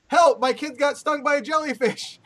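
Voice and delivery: high-pitched mock cry for help; mock yell. Reading a joke about a beachgoer's kid, mock yell. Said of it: "hear someone yell".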